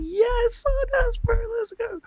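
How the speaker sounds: high, loud, excited cheer; hyped cheer. Retold or imitated. Hearing the podcaster went to Gravenhurst, high hyped cheer. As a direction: cheer like your team just scored. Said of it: "I was like".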